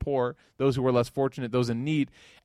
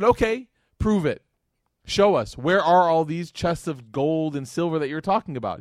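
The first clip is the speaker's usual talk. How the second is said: angry demand; 2 semitones higher, 5 dB louder than usual. Retold or imitated. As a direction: demand proof like an outraged crowd. Angry congregation demands proof.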